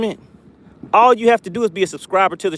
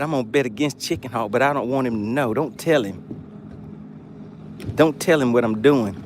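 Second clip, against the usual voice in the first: hushed secret; 7 semitones lower, 7 dB quieter than usual. Retold or imitated. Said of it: "He said".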